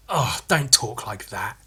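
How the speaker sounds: mildly mocked condescending scolding; condescending rebuke. Shoe store person rebuking his slang, mock condescension. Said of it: "the condescension of it".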